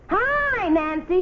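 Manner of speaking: a high calling hi across the playground; a child calling from the monkey bars; shouted. A narrator's reading. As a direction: call out high and bright. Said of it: "she shouted".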